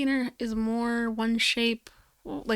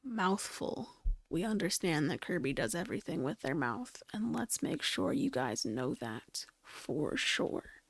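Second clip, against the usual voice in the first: mock corporate voice; 4 semitones lower, 7 dB quieter than usual. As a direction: drone it like a smug press release. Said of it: "They really said".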